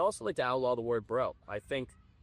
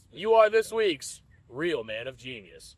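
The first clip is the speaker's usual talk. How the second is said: announcer voice; 6 dB louder than usual. Pretend. Announcer parody.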